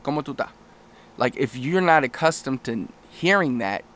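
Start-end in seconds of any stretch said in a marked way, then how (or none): 0.0-0.5 "¿Cómo tú estás?" run together as "cómo tú 'tá"; Dominican pronunciation. Shown as a demonstration. Teacher imitating Dominicans, "¿Cómo tú estás?" shortened to "cómo tú 'tá". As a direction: drop the es and final s in "¿Cómo tú estás?". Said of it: "same like the Dominican Republic".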